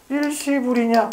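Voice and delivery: slow dictation. Real, not acted. Teacher dictating the next item to write down, slow dictation. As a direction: stretch it out for note-takers.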